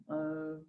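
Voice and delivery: soft, low, drawn-out "uh"; hesitant "uh". Shown as a demonstration. Teacher showing students how English speakers pause, hesitant uh. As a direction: stall softly on a schwa, as if thinking. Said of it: "Que están como pensando".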